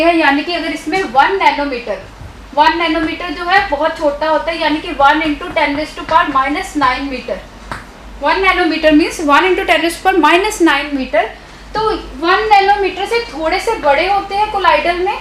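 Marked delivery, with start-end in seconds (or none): 4.6-7.4 slow dictation. Shown as a demonstration. Teacher dictating a definition. 8.2-11.2 slow dictation. Shown as a demonstration. Teacher dictating a definition.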